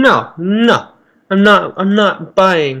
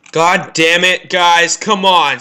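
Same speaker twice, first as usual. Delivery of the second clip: annoyed yell; 6 dB louder, slower than usual. Real, not acted. Yelling at teammates.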